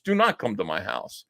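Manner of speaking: a hint of a defeated, frightened repeat; mock panic, fading. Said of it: "Vito was actually panicking".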